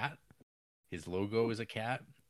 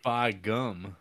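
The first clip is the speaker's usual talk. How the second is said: louder folksy exclamation; old prospector; 2 semitones higher, 8 dB louder than usual. Retold or imitated. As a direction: bark it out like an old-timer. Repeating the old-timer's catchphrase.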